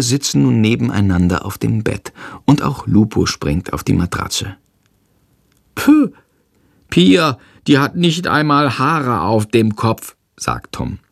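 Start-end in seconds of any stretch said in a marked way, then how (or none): 5.8-10.2 put-on high child voice, slow and scornful; a small boy unimpressed; little boy, scornful. Tom grumbling to his brother about the new baby, scornful child voice.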